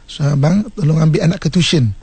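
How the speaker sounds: put-on wife asks husband nicely to fetch the child; gentle request. Shown as a demonstration. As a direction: ask kindly. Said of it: "Kan bagus tu".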